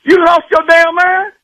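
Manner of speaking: real jealous-husband indignation; indignant. Real, not acted. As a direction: cut him off in disbelief, pitch jumping. Husband objects to doctor praising wife.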